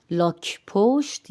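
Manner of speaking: لاک پوشت as "lawk-phosht", aspirated k and p; Persian aspiration. Shown as a demonstration. Teacher models the turtle word after explaining, aspirated pronunciation. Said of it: "کاف کے ساتھ ہا کی آواز".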